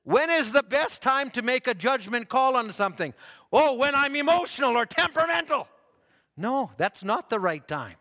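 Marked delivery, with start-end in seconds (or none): 3.5-5.7 mock hot-headed answer. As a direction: play the hothead blurting out. Mock wrong answer, played up.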